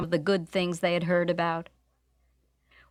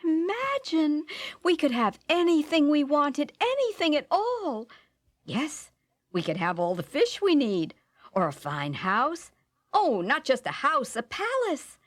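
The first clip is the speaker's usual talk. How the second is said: high, eager wife's voice with soaring pitch on anything at all; wife swept up in wishing, voice leaping higher; excited dreaming wife; 6 semitones higher than usual. Acted.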